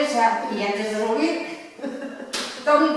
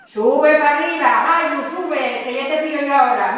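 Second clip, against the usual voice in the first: calling out. Acted. Lagging hiker urging a companion upward, calling out. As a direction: holler slowly to a climber ahead.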